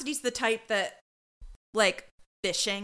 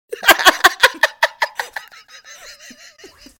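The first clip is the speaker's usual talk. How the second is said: burst of laughter; 14 dB louder than usual. Real, not acted. Porcelain hand joke.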